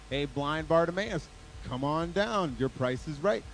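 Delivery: loud, slow game-show call across a crowd. Retold or imitated. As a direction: boom it out like a game show host. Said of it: "I'm sure Jesus had a loud voice".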